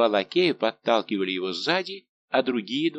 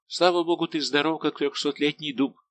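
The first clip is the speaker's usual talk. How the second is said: raised, emphatic reassurance; hearty protest; 7 semitones higher than usual. A narrator's reading. D'Artagnan scoffs at the old servant's complaints, hearty protest. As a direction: pitch it high and brush the complaint aside.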